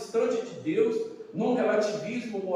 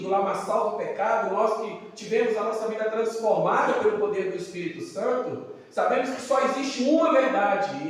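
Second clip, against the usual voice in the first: raised, insistent sermon delivery; emphatic preaching; 3 semitones higher, 3 dB louder than usual. Acted. Preacher to congregation on the one truth in Christ, emphatic preaching. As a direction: preach it with firm, driving emphasis. Preacher builds forceful declaration.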